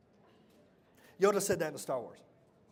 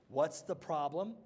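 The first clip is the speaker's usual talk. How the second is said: slow dictation; slower than usual. Shown as a demonstration. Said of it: "Everybody write this down".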